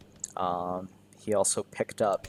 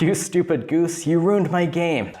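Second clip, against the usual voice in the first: higher, louder mock-angry old man yelling at the goose; 8 semitones higher, 4 dB louder than usual. Old man whose game the goose ruined, mock-angry shout. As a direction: play the grumpy villager scolding the bird. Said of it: "He's like".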